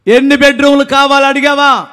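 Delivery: ringing challenge to the crowd; emphatic repeat. Real, not acted. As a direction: press the question on the congregation, voice lifted. Repeats question louder for emphasis.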